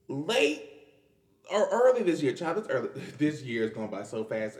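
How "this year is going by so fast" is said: laughing. Real, not acted. Laughing about fast year.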